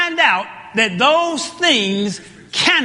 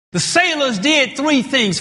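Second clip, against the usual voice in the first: ordinary talk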